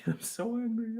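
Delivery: laughing through the words. Shown as a demonstration. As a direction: giggle it out.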